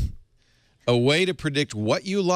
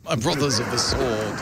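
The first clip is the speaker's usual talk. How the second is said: mock epic British. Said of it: "Brad Pitt as Achilles".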